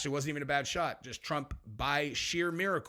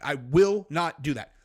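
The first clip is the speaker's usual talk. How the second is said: every word pressed down, louder and slow; firm refusal; 6 dB louder, slower than usual. Real, not acted. To his co-hosts about taking up arms, a loud slow refusal. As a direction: plant your feet and refuse. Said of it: "loud emphatic vow".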